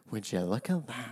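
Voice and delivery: very quiet, flat-toned imitation of Desmond's deadpan; underplay it, barely bothered by the helicopter; hushed mock-nonchalant marvelling. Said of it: "it's a delivery is great".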